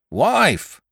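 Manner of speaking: mild mock roar; half-hearted roar of Wife. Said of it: "roared John".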